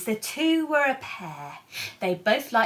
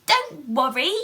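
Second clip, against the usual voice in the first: peeped; 3 semitones higher, 4 dB louder than usual. Acted. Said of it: "Mouse peeped".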